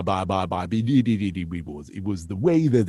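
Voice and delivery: stammering, babbling politician impression; Boris Johnson. Impressionist recalls first trying him, blustering stammer impression. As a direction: stumble through repeated syllables before finding the words. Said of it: "did Boris Johnson".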